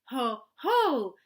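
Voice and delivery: a monster's gloating laugh; Heffalump's Ho ho. Acted. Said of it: "perhaps he'll say".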